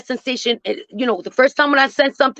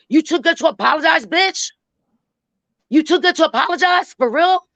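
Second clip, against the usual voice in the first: incredulous challenge; 5 semitones higher than usual. Real, not acted. Challenging her to apologize.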